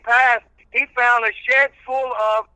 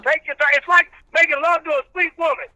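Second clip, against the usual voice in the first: country preacher character; 9 semitones higher than usual. Acted. Old reverend preaching patience to the radio host, in full preacher voice.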